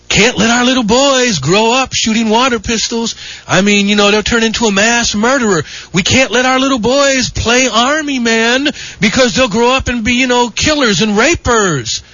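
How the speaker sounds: mocking alarm. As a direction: parody an overprotective scold. Mocking critics who stigmatize boys.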